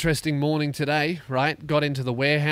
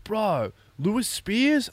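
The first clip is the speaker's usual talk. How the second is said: much higher, excited mock teen voice; teen fans; 10 semitones higher, much slower than usual. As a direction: recognise him, thrilled. Teenagers voiced in story.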